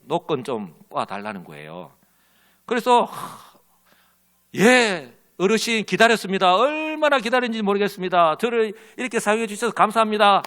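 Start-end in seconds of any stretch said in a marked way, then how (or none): 3.0-10.4 mock eager gratitude. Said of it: "하, 이랬을까요?".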